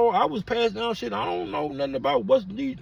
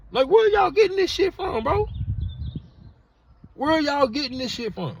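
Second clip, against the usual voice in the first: outraged; 6 semitones higher than usual. Real, not acted. Outraged rant.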